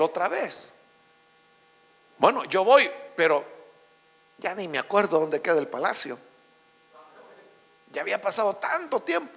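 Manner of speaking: low, soft, resigned voice; reluctant old Daniel. Acted. Long-forgotten prophet answering a royal summons, reluctant and subdued.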